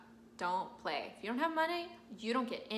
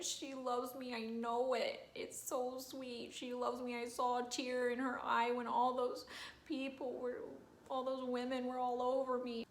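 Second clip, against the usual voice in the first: tender Nemorino; 3 semitones higher than usual. Acted. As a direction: sigh it out like a smitten tenor. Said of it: "he's like".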